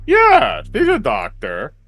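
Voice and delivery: frantic yelp. Acted. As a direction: blurt it out in a panic. Frantic answer to menacing Trent.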